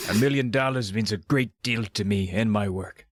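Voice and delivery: put-on Scottish accent, lightly done; Sean Connery. Doctor D to the zoo people, attempted Scottish accent. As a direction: try a rough imitation of a Scottish film star's accent. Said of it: "in his best Sean Connery accent".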